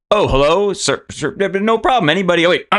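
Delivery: a chef putting on a bad French accent to seem posh; terrible fake French accent. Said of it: "doing a really terrible impression of it".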